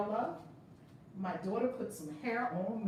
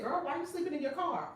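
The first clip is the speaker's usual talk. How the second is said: higher, lightly imitated comedian; teasing retold scolding, tipping into laughter; Kevin Hart; 4 semitones higher than usual. Retelling a comedian's joke to a woman sleeping in her car, light imitation. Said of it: "he said".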